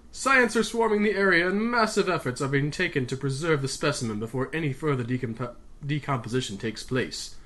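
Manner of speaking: lightly attempted British radio reporter; British accent. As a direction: read the report in a shaky-at-best British accent. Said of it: "a man's voice with a British accent".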